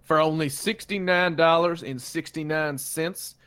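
cheesy local ad read; ad announcer. Acted. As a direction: pitch it like a backyard TV ad. S0 performs a fake radio ad.

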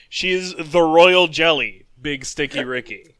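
angry. Acted. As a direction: spit the name out like you're annoyed. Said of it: "You sound so angry coming up with it".

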